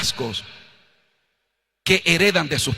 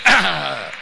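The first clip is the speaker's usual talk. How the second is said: proud puffed-up ah; 4 semitones lower than usual. Acted. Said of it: "saca pecho y dice".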